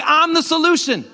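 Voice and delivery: high, loud rallying call; like you mean it. Shown as a demonstration. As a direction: lead the crowd with full conviction. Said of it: "Say it like you mean it".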